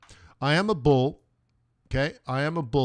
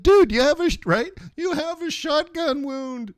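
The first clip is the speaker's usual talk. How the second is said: hammed-up shocked doctor; incredulous doctor; 8 dB louder than usual. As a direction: squeak out your disbelief at the patient.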